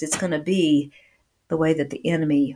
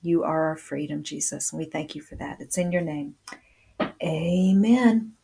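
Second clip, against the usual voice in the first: earnest prayer winding down to amen; closing prayer; 2 semitones lower, 5 dB quieter than usual. Real, not acted. Closes a prayer.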